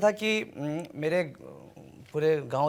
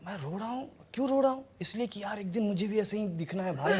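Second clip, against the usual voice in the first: higher-pitched imitation of crying self; mock tearful; 5 semitones higher, 3 dB quieter than usual. Actor retells crying at a film, mock tearful. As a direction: play your tearful young self, half laughing by the end. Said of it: "मैं रोने लगा".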